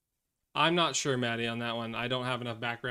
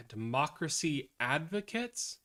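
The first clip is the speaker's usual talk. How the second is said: skeptical question; 2 semitones higher, slower than usual. Real, not acted.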